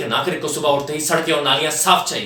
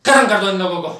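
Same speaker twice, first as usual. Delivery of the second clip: higher, forceful kill order; building to a loud, high command; furious order; 4 semitones higher, 4 dB louder than usual. Acted. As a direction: drive each order harder in rage. Officer recounts and urges killing them all.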